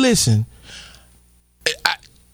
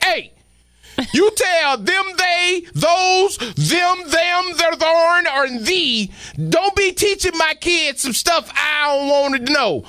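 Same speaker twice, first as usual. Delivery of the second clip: mock angry dad; 5 semitones higher, slower than usual. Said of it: "I'd have been like".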